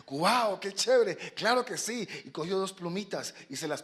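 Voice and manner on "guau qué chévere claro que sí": high, eager storybook fledgling; thrilled young swallow. Acted. Young swallow accepting the fox's deal, thrilled. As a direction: jump at the offer with delight.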